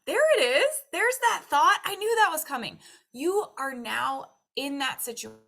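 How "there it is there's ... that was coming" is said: loud, high gleeful gasp; gasp, then shout it out high and loud; mock excited gasp. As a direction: catch the thought like a prize. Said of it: "spotting the expected thought".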